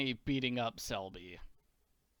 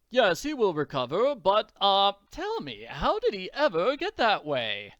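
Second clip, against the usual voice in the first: loud, higher-pitched doctor's voice; inquiring doctor; 5 semitones higher, 6 dB louder than usual. Acted. Doctor asking the father about the injuries, inquiring. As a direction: ask it as a puzzled doctor.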